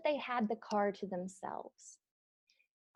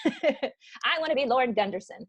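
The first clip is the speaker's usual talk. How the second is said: laughing mock wish; 3 semitones higher than usual. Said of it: "you know".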